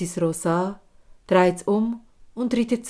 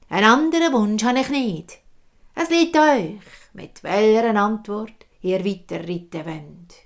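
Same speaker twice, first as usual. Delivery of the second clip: insistent hag; 4 dB louder than usual. Acted. Hag insists on her price.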